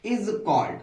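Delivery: drawn out, word by word; slow dictation. Shown as a demonstration. Teacher repeating the definition slowly for the class. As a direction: read it slowly for them to copy. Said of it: "अच्छा देखिए".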